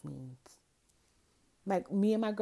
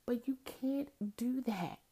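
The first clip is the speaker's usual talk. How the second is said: whisper; 4 semitones higher, 3 dB quieter, slower than usual. Real, not acted. Venting, whisper measured.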